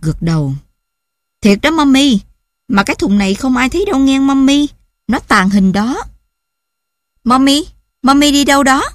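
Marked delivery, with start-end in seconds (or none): 1.4-6.0 put-on child's voice. 7.2-8.8 put-on child's voice. Child asks where mommy goes.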